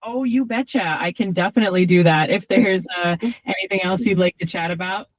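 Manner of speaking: put-on light Midwestern Minnesota accent, chirpy; folksy Minnesota accent, upbeat. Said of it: "speak in a very thick Midwestern Minnesota accent".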